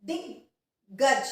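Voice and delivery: दिग्गज said very slowly, syllable by syllable, half ग joined to दि; drawn-out teaching demo of दिग्गज. Shown as a demonstration. Teacher slowly models दिग्गज for students to repeat. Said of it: "आप मेरे साथ बोलिए".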